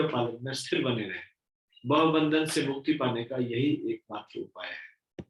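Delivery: measured, declaimed read-aloud; formal scripture reading. Acted. Preacher reading scripture commentary to listeners, formal recitation.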